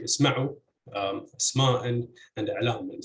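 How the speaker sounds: isMA'u, isMA'an, aLAman, second syllables stressed. Shown as a demonstration. Lecturer giving fifth-case examples, isma'u stressed on MA. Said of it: "stress in all of these words would be on the second".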